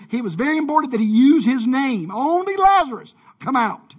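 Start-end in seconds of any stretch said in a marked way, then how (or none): 2.1-4.0 loud, high, playful command; emphatic calling out. Retold or imitated. Jesus singling out his friend among the dead, emphatic call. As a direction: shout it with the pitch way up on the name. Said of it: "is what he was saying".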